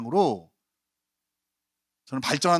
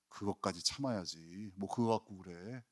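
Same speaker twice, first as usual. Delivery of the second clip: much softer, lower, shrugging it off; offhand dismissal; 8 semitones lower, 16 dB quieter than usual. Pretend. Jesus waving off a church member, soft and offhand. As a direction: brush off the complaint lightly. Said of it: "예수님 이렇게 말씀하실 거예요".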